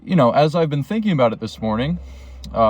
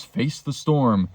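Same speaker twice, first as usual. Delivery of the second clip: slow, drawn-out sarcastic tone; slower than usual. Real, not acted. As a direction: say it with a dry sarcastic edge. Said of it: "I said that so sarcastically".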